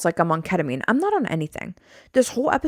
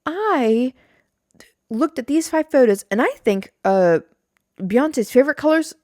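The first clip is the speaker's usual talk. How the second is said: mock YouTuber voice; 4 semitones higher than usual. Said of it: "if you wanna be like".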